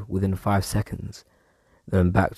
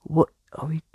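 whisper; 8 semitones higher than usual. Real, not acted. Mum brought medicine into room.

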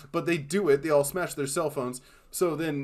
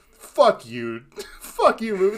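mock yell; 6 semitones higher, 8 dB louder than usual. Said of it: "saying that out loud to the screen".

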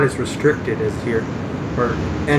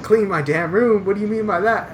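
incredulous; 8 semitones higher than usual. Retold or imitated. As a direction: repeat it back in disbelief. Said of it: "And I was like".

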